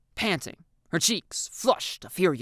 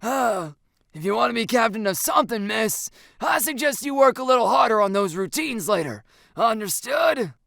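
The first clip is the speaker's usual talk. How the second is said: higher, firm coach voice; gruff-mannered coach telling off; exasperated coach; 7 semitones higher, 5 dB louder than usual. A narrator's reading. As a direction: dismiss the student with a stern order. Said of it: "The coach sighs".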